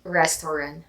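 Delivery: Restaurant with the T dropped; no final T. Shown as a demonstration. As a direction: say Restaurant, leave off the T. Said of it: "now we're not pronouncing the T".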